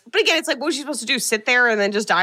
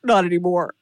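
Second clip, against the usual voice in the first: creepy puppet voice; 4 semitones lower than usual. Acted. Voicing the Jigsaw puppet.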